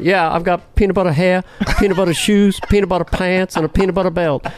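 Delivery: rhythmic list in a lightly voiced nutty president; Jimmy Carter. Nutty president listing his clothing, rhythmic Jimmy Carter impression. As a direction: chant each item in the same lilting beat. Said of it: "I love this abstract rhythm".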